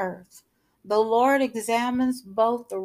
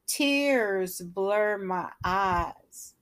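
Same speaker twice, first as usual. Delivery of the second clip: emotional; much slower than usual. Acted. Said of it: "he's feeling so emotional".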